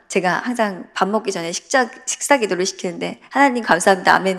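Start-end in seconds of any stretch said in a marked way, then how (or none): 3.3-4.4 put-on child's prayer. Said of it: "항상 하거든요".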